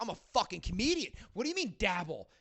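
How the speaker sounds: offended. Retold or imitated. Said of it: "he got really offended".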